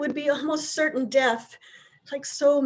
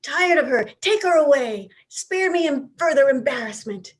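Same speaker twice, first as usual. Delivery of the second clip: weary mock outrage; 4 semitones higher than usual. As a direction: beg the police to take her away. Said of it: "he began to shout".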